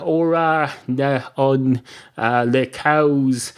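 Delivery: slow, halting attempt at French; badly faked French, groping for the words; mock French accent. Guessing how the French say a phrase, in halting mock French. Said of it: "They say it in a French accent".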